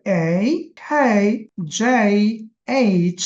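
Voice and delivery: slow, drawn-out এই sound in each letter name; letter sound demo. Shown as a demonstration. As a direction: say এই, খেই, জে, এইচ slowly, stressing the এই sound. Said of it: "দেখছেন একটা কয় জায়গা আছে?". (ধীরে ধীরে এই ধ্বনি টেনে উচ্চারণ)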